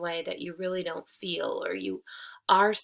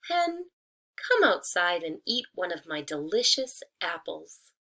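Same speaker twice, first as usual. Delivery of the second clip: coaxing tree. Acted. Disguised wolf luring the hen outside, sweetly coaxing. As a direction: lure her out sweetly. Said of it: "said the tree".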